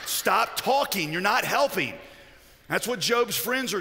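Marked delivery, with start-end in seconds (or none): 0.1-1.9 slow, emphatic telling-off; exasperated rebuke. Acted. To friends who only make it worse, exasperated. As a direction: spell it out, fed up.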